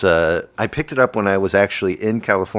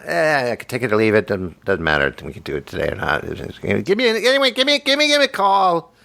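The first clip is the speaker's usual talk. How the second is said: New York dude. Retold or imitated. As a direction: shrug it off like a New Yorker. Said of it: "you make me sound like, like a New York dude".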